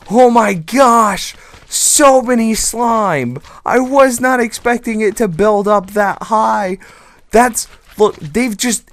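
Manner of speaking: slow, high, loud astonishment; stretched-out shocked delight; amazed exclamation. Real, not acted. Sees huge slime pile.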